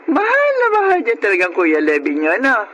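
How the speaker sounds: fighting back happy tears; tearful. Acted. Mother touched by her children's devotion, tearful crying. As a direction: voice crying through the words.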